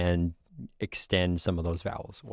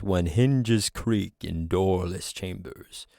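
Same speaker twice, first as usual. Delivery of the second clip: playful ghost voice; 2 semitones lower, slower than usual. Shown as a demonstration. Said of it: "you just have more of that, like, playful".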